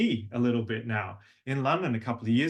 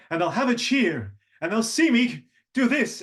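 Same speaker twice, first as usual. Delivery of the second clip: higher, rising sing-song hero; lightly acted Hercules; 9 semitones higher, 5 dB louder than usual. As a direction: build up towards the song. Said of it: "Hercules go".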